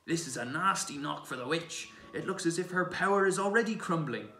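loud, high, gleeful exclaiming; delighted cry. A narrator's reading. Mister Beaver tells of the witch's failing power, crying out delightedly. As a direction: crow over the witch's setback. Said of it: "almost dancing with delight".

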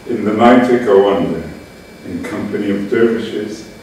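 measured poem recital in short phrases; deliberate literary reading with spaced phrases; poetry reading. Acted. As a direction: read it as verse, pausing between lines. Reads own poem aloud.

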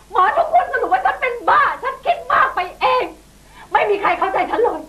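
bitter laughing. Acted. Wife's bitter rant.

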